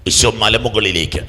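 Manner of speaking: ordinary talk, nothing marked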